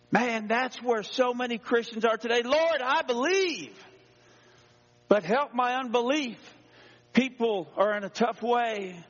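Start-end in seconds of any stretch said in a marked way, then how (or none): 2.4-6.4 pleading Christian. Retold or imitated. Struggling Christians crying to the Lord, pleading.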